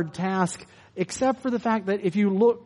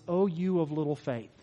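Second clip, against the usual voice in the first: much softer, gentle sigh of a line; soft loving rebuke; 3 semitones lower, 7 dB quieter than usual. Shown as a demonstration. Pastor voicing Jesus gently to Peter, soft. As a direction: say it like a fond brother. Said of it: "could be a criticism or it could be a".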